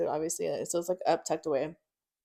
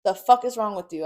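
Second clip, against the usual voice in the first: heated, higher-pitched outburst; pissed; 5 semitones higher, 3 dB louder, faster than usual. Retold or imitated. Warning him they will take her kids, pissed. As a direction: get worked up retelling the confrontation. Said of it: "I get a little pissed".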